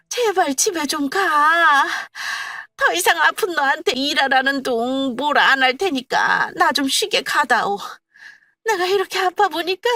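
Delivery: put-on high, loud begging old woman; mother-in-law pleading to be left alone. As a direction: beg her to leave. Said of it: "거의 애원하다시피 집에 가라고 했고".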